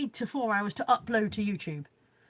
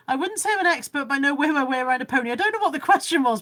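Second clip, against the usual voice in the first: excited; 3 semitones higher, 7 dB louder than usual. Real, not acted. Reading a pony comment excitedly.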